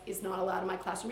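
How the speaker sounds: low, mildly firm correction with a punched THAT; a little sterner. Shown as a demonstration. Teacher naming a student's misdeed, a little stern. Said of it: "getting a little bit sterner now".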